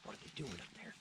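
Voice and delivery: hushed, voiceless whisper; whispered worry. Retold or imitated. Soldiers wondering about the guards above, whispering. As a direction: whisper it so the guards won't hear.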